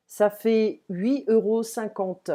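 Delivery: slow, careful French for learners; slow dialogue reading. Shown as a demonstration. Teacher reads a post office dialogue to learners, slowly and clearly. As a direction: read each role out slowly and clearly.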